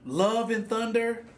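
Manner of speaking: slow, disbelieving echo of the title; incredulous repeat. Acted. Podcast host scoffing at the Thor movie title, slow and incredulous. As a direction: drag it out like you can't believe it.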